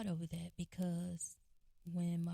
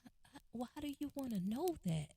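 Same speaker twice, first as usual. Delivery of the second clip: higher, tearful whine, imitated; retold tearful protest, pitched up; mock sobbing; 7 semitones higher, faster than usual. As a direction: imitate an upset brother protesting. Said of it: "he just kinda sobbed and cried".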